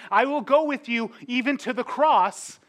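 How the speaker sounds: Peter's bold promise. Retold or imitated. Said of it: "where he told Christ".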